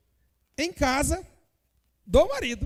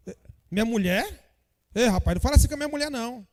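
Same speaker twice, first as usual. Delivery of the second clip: indignant husband; faster than usual. Pretend. Acted husband defending wife.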